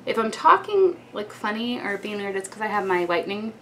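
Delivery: talking around a retainer; slightly lisping through retainer; wearing a retainer. Real, not acted. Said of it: "my retainer with my whitening gel".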